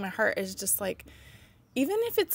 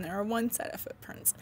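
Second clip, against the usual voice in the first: soft unvoiced whisper; 7 dB quieter than usual. Real, not acted. Mom moved, whispering the point of the footprints poem. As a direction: let it fall to a whisper.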